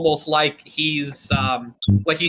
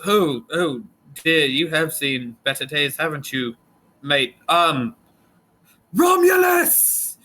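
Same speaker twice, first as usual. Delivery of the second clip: fussy tiefling Chris, calling out. Acted. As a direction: tut at the battered rifle, then holler for a coworker. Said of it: "and he goes".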